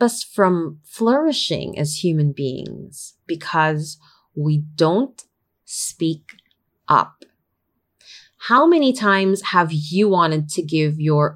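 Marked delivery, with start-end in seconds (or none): 4.3-7.2 slow, word by word, "speak" nearly whispered; halting emphasis. Real, not acted. Coach names why Filipinos don't flourish, halting emphasis.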